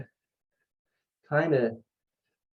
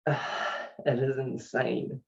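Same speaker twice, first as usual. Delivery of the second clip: awed sigh; 5 dB quieter, much slower than usual. Real, not acted. Awed by God's love.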